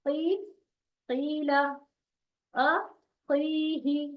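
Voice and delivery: "क़ी" with a thick q and long held ee; "क़ीला" with heavy "क़" and light "ला"; heavy qaf, stretched. Shown as a demonstration. Teacher modelling for students, thick drawn-out "क़ीही". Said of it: "क को कैसा पढ़ना है?".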